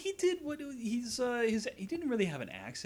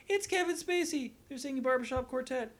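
excited retold reaction, pitched way up; mock amazement; 9 semitones higher than usual. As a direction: marvel at it in a raised, stretched voice. Acting out own amazed reaction.

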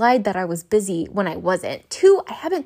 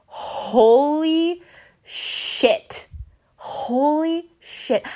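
panicked reaction; 5 semitones higher, much slower than usual. Retold or imitated. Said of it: "I start freaking out. I'm panicking".

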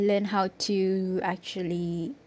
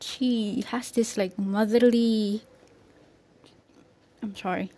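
out of breath. Real, not acted. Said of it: "I'm way out of breath".

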